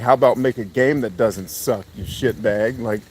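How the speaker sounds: ranting retort. Retold or imitated. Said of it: "I'm like".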